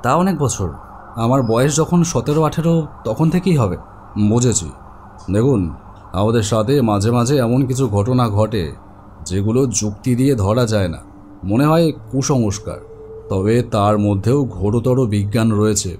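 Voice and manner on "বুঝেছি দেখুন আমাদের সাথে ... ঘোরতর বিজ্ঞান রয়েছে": calm doctor. Acted. Doctor explains dreams calmly.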